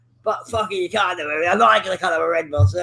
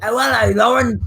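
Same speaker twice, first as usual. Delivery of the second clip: attempted English accent; 4 semitones higher than usual. Streamer greets Lauren in a mock English accent. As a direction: put on a bad upper-class English accent. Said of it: "there's no way you can sound English".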